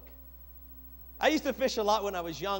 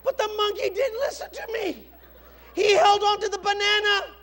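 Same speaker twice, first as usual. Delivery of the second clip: high, loud, laughing words; 12 semitones higher, 10 dB louder than usual. Real, not acted. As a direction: talk through laughter. Still laughing at story.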